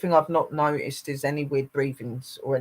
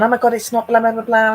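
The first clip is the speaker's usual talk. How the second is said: loud, high mock alarm; high, loud blah-blah imitation; imitated panicky fussing; 8 semitones higher, 9 dB louder than usual. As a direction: mimic people fussing, raised and high-pitched. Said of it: "people started freaking me out".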